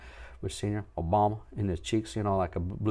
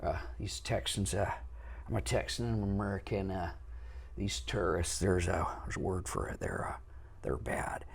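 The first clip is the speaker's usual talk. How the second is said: lightly imitated politician, hushed and halting; soft, faltering impression with hesitant uhs; 7 dB quieter than usual. Vocal coach imitating politicians with personality, soft halting impression.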